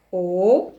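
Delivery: OLIVE split into O, LI, VE, long gaps between; syllable by syllable. Shown as a demonstration. Teacher spelling out a word while writing it, syllable by syllable. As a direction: draw out each syllable of OLIVE separately. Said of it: "je vais écrire".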